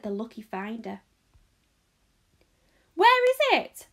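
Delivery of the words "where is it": high, very loud call from a crowd; loud, eager demand; shout. A narrator's reading. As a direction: shout over everyone's heads. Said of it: "somebody shouted".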